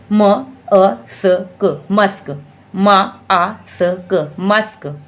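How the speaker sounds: "म अ स क" each sound slow, then "मस्क" with a short a; sounding out slowly. Shown as a demonstration. Teacher showing u sounds like a in musk. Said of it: "यू का sound आ है".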